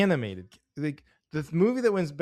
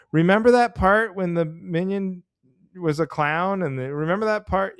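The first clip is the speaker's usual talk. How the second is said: imitating kids gushing after the movie, higher; excited kid recalling; 4 semitones higher, 4 dB louder than usual. Kids leaving the theater recalling favorite parts, mock excited. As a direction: gush about a favorite bit like a kid.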